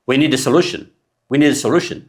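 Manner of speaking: "a" said as a weak schwa before "solution"; reduced a. Shown as a demonstration. Teacher modelling natural speech for learners. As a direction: let the "a" slip by unstressed. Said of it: "We don't say".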